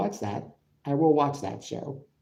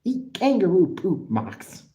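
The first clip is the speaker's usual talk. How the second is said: louder, teasing mock Australian accent; 5 semitones higher, 4 dB louder than usual. Taunting Moxley in chat, mock Australian accent. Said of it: "I'm doing an impression of him".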